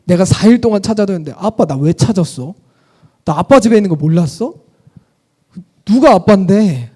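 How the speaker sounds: put-on boy Jesus answering his parents, lightly cheeky; sassy boy Jesus. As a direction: tease the parents like a smug kid. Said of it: "예수님이".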